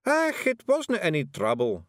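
high, breezy Scots Feegle; cheerful Feegle. A narrator's reading. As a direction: Rob cheerfully answers Miss Level, high Feegle voice. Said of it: "said Rob Anybody cheerfully".

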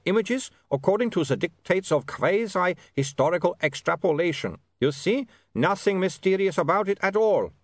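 high, pedantic foreign vampire lecture. Acted. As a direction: explain it airily, know-it-all. Otto lectures pseudo-science.

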